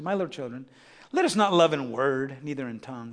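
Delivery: soft and low, imitating an elder; tender apostle. Preacher voicing John's plea to love in deed, tender apostle. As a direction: quote the apostle gently, well below full voice. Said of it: "this is how he talked".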